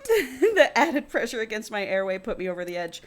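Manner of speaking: reading a novel aloud; story narration. A narrator's reading. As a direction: read it out as first-person fiction. Reads the book aloud.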